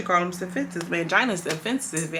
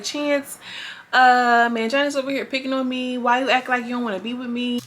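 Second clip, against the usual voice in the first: higher-pitched mock pleading; imitated whiny complaint; 5 semitones higher than usual. The speaker tattling to Chance about being picked on, mock whiny. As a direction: complain like a wronged girlfriend, imitating her.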